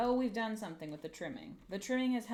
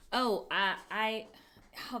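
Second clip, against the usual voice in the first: startled; 2 semitones higher, 10 dB louder than usual. Real, not acted. Startled mid-craft, stammering.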